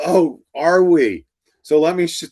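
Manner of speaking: sarcastic teacher daring the provost to fire her; sarcastic challenge. Retold or imitated.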